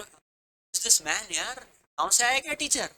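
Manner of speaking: scoffing student voice, drawn out; mocking student. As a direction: sneer at the teacher like a bored student. Students mocking teacher's Hindi. (मज़ाक उड़ाता छात्र)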